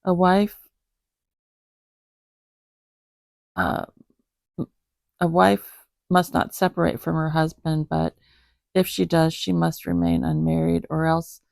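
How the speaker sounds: measured, even scripture reading; Bible reading. Acted. Reading First Corinthians aloud to the cat. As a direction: read it out steadily like a lesson.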